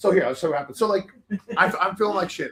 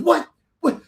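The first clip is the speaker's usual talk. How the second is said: imitated indignant flamboyant man, higher pitched; flamboyant cabin manager; 7 semitones higher, 4 dB louder than usual. Cabin manager scolding a cursing passenger, imitated as flamboyant and indignant. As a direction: play a mildly hammed-up, offended steward. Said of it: "he's very flamboyant too".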